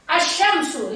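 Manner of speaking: "Asyamsu" with no l, straight into a long sy; assimilated alif lam. Shown as a demonstration. Teacher showing children the silent alif lam, clearly assimilated "Asyamsu". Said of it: "Alif lamnya dihilangkan".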